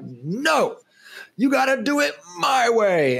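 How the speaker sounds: mock bossy dad laying down the law; a hammed-up strict father insisting on his way; authoritarian dad. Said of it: "like, authoritarian dad".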